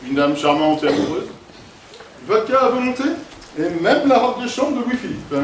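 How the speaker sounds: classy gentleman. Shown as a demonstration. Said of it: "je vais te montrer".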